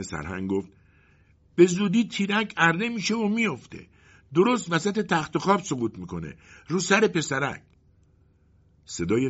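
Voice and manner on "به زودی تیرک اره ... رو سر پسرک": much higher squeaky mouse voice; lame mouse. Acted. The lame mouse warns the colonel about the falling beam, in a high squeaky voice. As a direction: squeak it out like a small crippled mouse.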